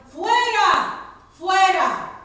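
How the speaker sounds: high, loud furious shout; crowd yelling. A narrator's reading. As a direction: hurl it at him like a mob. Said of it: "Pero ellos gritaron".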